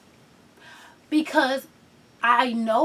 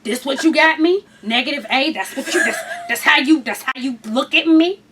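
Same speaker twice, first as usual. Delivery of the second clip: sassy attitude; 2 semitones lower than usual. Retold or imitated. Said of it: "too much attitude in my voice".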